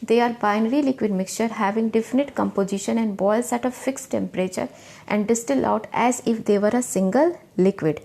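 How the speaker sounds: slow, word-by-word dictation; reading the definition. Shown as a demonstration. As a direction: dictate the definition slowly so students can write. Reads definition aloud slowly. (परिभाषा धीरे-धीरे लिखवाते हुए)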